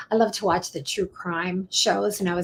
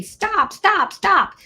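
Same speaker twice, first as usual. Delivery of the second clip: much higher, loud shouted "stop"; yelling at the TV; 11 semitones higher, 4 dB louder, much slower than usual. Retold or imitated. Yelling at the TV show, high and loud. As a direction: shout at the screen. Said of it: "I'm yelling at the T V".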